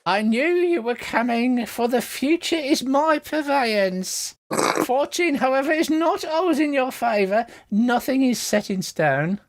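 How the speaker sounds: high-pitched mystic fortune-teller; theatrical old lady prophecy; cackly old lady. Acted. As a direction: intone it high, like an old seer. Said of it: "a cackly old lady voice".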